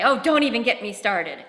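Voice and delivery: loud mock exasperation; child's repeated dramatic phrase; exasperated catchphrase. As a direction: throw it out like a stock line you always say.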